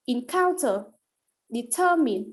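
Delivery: "encounter, determine" with the weight on the second syllable; middle-syllable stress. Shown as a demonstration. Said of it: "on the preceding syllable".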